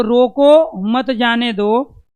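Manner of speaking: slow and loud, रोको set apart from मत जाने दो; pause after रोको. Shown as a demonstration. Teacher showing where the comma goes, pause after रोको. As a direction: say रोको, break, then slowly मत जाने दो. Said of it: "रोको के बाद".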